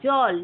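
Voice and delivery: জল said loud, জ carrying a clear অ; demo pronunciation. Shown as a demonstration. Teacher showing students the অ sound in জল, loud. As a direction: sound out জল with a full অ after জ. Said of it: "একটা অ উচ্চারণ হচ্ছে".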